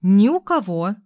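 smug, spiteful confirmation; gloating. A narrator's reading. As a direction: savour his bad luck. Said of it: "злорадно подтвердила Люся".

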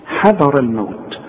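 حذر with a clear ح and thin ذ; careful recitation. Shown as a demonstration. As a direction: say حذر الموت slowly. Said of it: "انت خدت الحاء دائمًا حاء".

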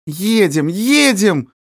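high, eager cry; overjoyed girl eager to go; joyful outburst. Acted. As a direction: burst out with delight. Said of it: "вырвалось радостным звуком".

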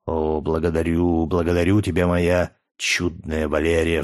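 plain reading voice

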